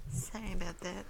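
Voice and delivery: soft whisper; whispered apology. Acted.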